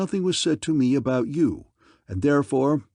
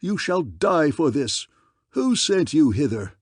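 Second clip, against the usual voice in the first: enraged threat; 4 semitones higher, 3 dB louder than usual. Acted. King enraged at intruder.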